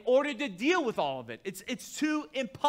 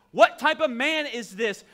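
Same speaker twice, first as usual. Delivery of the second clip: wondering crowd; 3 semitones higher, 7 dB louder, slower than usual. Retold or imitated. Quoted crowd, louder, slower.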